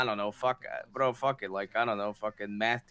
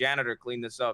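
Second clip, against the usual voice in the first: ordinary talk, nothing marked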